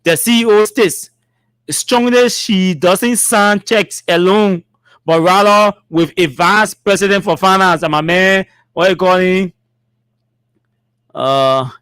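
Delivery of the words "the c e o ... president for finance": measured read-aloud; formal statement reading. Acted. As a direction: read each phrase out deliberately.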